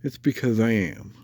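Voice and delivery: stuffy nose from a cold; congested. Real, not acted. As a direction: talk through a blocked nose. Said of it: "Sorry if I sound congested".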